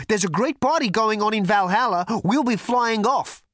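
loud, high, projected boast; big, ringing announcement; booming thunder god. A narrator's reading. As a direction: proclaim it like a Norse god. Thunder god boasts of his plans.

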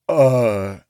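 a caught, frightened uh; nervous gulp. A narrator's reading. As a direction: samurai gulping under her glare. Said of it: "he gulped".

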